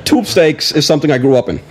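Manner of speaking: mock-serious presidential answer, lightly imitated; a hint of a president, pausing before the point; Obama. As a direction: deliver a silly answer like a measured statesman. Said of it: "then you can do an Obama".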